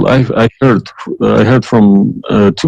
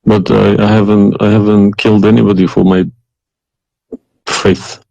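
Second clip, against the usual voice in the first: tearful, halting, with heavy pauses; crying. Real, not acted. Caller defending his past faith to the host, crying. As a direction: push the words out through real tears. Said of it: "Oh, you are crying then".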